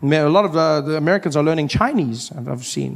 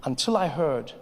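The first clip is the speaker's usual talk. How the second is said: much softer, intimate aside; hushed confession; 3 semitones lower, 10 dB quieter than usual. Real, not acted. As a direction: drop to a near murmur for a secret. Soft confessional stretch.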